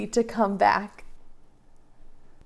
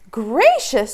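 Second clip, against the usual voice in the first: gasp of surprise; 3 semitones higher, 6 dB louder than usual. Acted. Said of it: "said Mama Bear".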